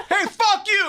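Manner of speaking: high-pitched mock outburst; acted heckle. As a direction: hurl it like a sudden heckle. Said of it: "So you're like".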